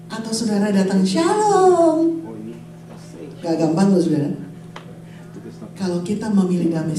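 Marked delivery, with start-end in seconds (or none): 1.0-2.2 drawn-out, higher-pitched hello; acted peace greeting; friendly greeting. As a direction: greet them in a lifted, sing-out voice.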